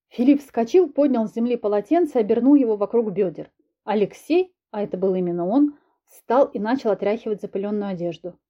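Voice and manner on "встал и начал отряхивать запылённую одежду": plain reading voice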